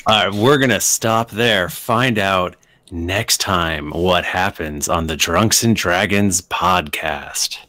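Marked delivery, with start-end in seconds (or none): 1.7-7.6 slow, deliberate sign-off; slow announcer outro. Acted. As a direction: announce it slowly like a show ending. Records the outro line.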